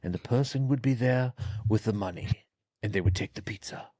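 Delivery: lightly voiced wise old man telling a story; old man's patient storytelling voice; old man storyteller voice. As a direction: recount it as a slightly condescending old-timer. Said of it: "I did it in my voice".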